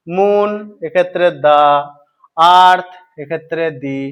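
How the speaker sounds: দা before moon and দি before earth, slowly; article contrast. Shown as a demonstration. Teacher to students, slowly contrasting the two articles. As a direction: slowly set দা against দি. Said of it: "দা বা দি".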